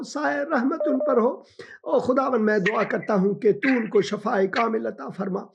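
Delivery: earnest spoken prayer, rising fervour. Acted. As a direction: pray over her with conviction. Pastor prays for caller.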